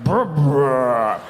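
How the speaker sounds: mock vomit erupting; rolling, guttural burp turning into a heave; imitated retch. Body throwing up on comic, imitated retching burp. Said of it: "my body was like".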